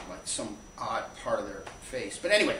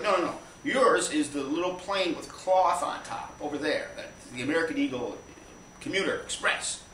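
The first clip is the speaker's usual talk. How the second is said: emphatic correction; 4 semitones higher than usual. Retold or imitated. Airport staff redirecting passenger to the little plane, emphatic.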